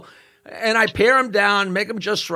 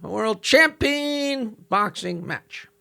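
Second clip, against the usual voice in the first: high, booming ring announcer voice; boxing ring announcer; 4 semitones higher than usual. Retold or imitated. Comic telling a roast joke, voicing the ring announcer. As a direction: call it like a ringside announcer. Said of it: "the announcer comes out and says".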